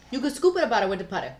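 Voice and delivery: a quick hint of Italian accent; mock Italian accent. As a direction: toss it off in a jokey Italian lilt. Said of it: "Now it's Italian".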